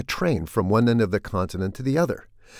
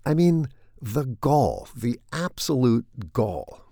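slow, hammed-up indignation over a tiny bill; mock outrage; 2 semitones higher, slower than usual. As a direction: play the scandalised patient, tongue in cheek. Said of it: "I'm kidding, of course".

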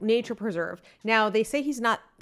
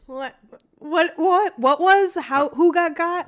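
indignant disbelief; 7 semitones higher, 6 dB louder, slower than usual. Real, not acted. Challenging the gotcha claim.

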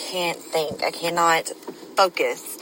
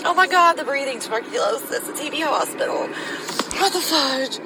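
tearful; 6 semitones higher than usual. Real, not acted. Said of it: "why am I crying".

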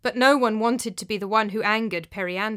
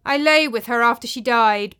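musing; 2 semitones higher, 7 dB louder than usual. A narrator's reading. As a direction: muse aloud, lost in memory. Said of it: "Periander mused".

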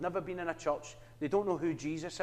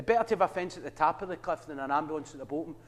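quicker retelling; faster than usual. Retold or imitated. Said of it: "heard the wee saying".

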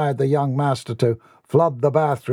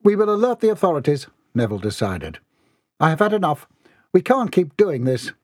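higher-pitched, emphatic resolve; resolute butler; 5 semitones higher than usual. Acted. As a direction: put your foot down as the butler. Butler fed up, decides firmly.

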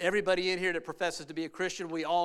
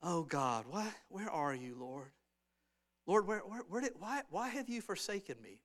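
soft, feeble, pleading whimper, much softer; mock whimpering; 7 dB quieter than usual. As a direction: whine it weakly as if giving up. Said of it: "Jesus wasn't up there whimpering".

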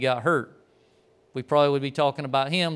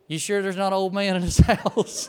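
laughing; 4 semitones higher than usual. Retold or imitated. Quoting coworker while laughing.

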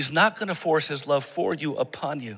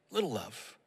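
"Little love" dropped to a near hush; soft echo; 4 semitones lower, 11 dB quieter than usual. Shown as a demonstration. Pastor echoing himself, "Little love" hushed and falling. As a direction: let "Little love" fall away softly. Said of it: "There's little love".

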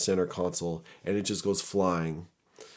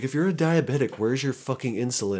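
loud, high mock challenge; imitated exasperated cops; 6 semitones higher, 3 dB louder than usual. Police challenging the diabetic excuse, imitated loud exasperation. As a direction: act out an officer not buying it.

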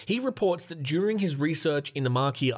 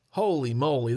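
ordinary talk

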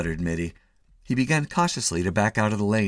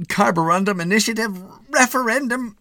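higher, louder building list; rising mock fervor; 5 dB louder than usual. A narrator's reading. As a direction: build each word up grandly. Rising list in Mitty's mind.

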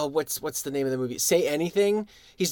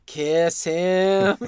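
urging Dale; 2 semitones higher, 4 dB louder, much slower than usual. Retold or imitated. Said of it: "but Dale going".

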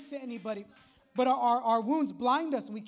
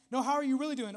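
mock concerned follow-up, pressing a little; acted probing question; faster than usual. Friend pushing past the small talk, probing question. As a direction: press lightly for the real answer.

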